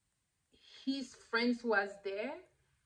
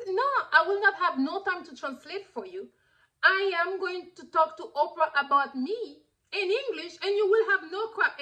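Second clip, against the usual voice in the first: higher, emphatic retold put-down; mock firm refusal; 5 semitones higher, 4 dB louder than usual. Partner refusing to translate for Mary, emphatic mock put-down. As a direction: imitate someone bluntly refusing a favor.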